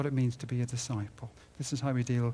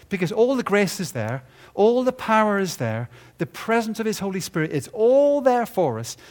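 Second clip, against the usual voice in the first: rising, louder preaching; building preaching force; 7 semitones higher, 7 dB louder than usual. Real, not acted. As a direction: lift the congregation with each line.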